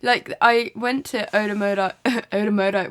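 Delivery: Odomodai said with an American twang; American-sounding Odomodai; American accent. Real, not acted. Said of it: "why have I got American accent?".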